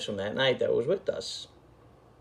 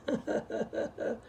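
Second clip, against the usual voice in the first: high wheezy breathless laugh; mocking laugh; 7 dB quieter than usual. Crew laughing at him on the stoop, wheezy mock laugh. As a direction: mimic the guys cackling at him.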